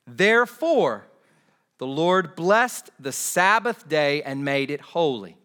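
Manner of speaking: weighty, projected reading with long pauses; slow scripture reading. Real, not acted. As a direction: read the verse out slowly, phrase by phrase. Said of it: "I want to read these slowly".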